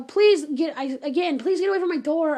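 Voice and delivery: retold demand to leave; insistent plea. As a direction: urge them firmly to back off. Pleading with stranger at door.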